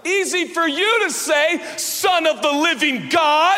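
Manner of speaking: loud, high mock exasperation; a loud sarcastic comeback; sarcastic retort. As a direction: roll your eyes and fire it back at him. Disciples' sarcastic reply.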